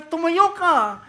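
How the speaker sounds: slow, high, loud order to stand; commanding shout. Retold or imitated. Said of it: "ikaw ay sumigaw". (mabagal at malakas na sigaw ng utos)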